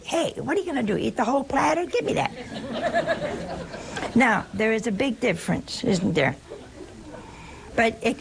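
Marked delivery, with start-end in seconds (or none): 0.0-2.3 high, teasing Italian family voice; a mock Italian at the dinner table grabbing the platter; boisterous Italian. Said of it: "if you said it that way as an Italian". 2.4-4.1 soft breathy laugh; airy chuckle after the punchline. Real, not acted. Laughing after Italian impression.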